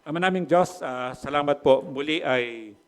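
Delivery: pastor leading a humble closing prayer; earnest prayer. Acted.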